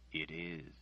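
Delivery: low, soft answer. Acted. Nathan answers Margaret softly and low. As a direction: let it fall gently and sadly. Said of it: "he said softly".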